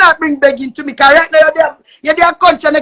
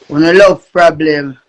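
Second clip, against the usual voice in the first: low, slow catchphrase drawl; slow deep voice; 10 semitones lower than usual. Acted. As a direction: drop the voice low and drag it out. Slower deep repeat of catchphrase.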